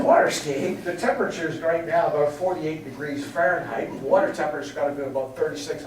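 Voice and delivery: reply in disbelief, then argue it fast; incredulous. Retold or imitated. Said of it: "I said".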